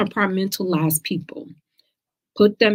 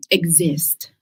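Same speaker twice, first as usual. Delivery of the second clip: whispered word. Real, not acted.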